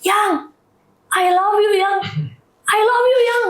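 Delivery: high-pitched calling out to a loved one; retold spontaneous shout. Wife calling fainting husband back, retold high-pitched shout. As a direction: re-enact crying out to someone slipping away. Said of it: "saya langsung teriak".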